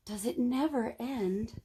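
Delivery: soft, slow, a touch of hushed wonder; awed whisper. A narrator's reading. Kate staring up the beanstalk, soft slow wonder. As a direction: breathe it out in awe. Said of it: "whispered Kate".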